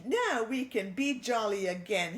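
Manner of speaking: lightly voiced excited French mouse; a hint of a happy little French mouse; Pierre the mouse. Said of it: "he said".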